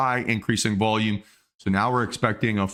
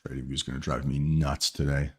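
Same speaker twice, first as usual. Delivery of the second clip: talking through hiccups; a hiccup catching the words; 6 semitones lower, 5 dB quieter than usual. Real, not acted. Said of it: "I got the hiccups all morning".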